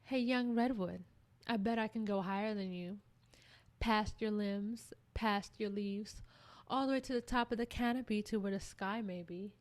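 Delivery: cocky bragging, a touch of swagger; boastful balloon. Acted. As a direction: brag to the big tree, a little showy.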